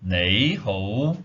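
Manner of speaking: "Nei hou" said as a careful Cantonese demo; Cantonese hello. Shown as a demonstration. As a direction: model "Nei hou" clearly for learners.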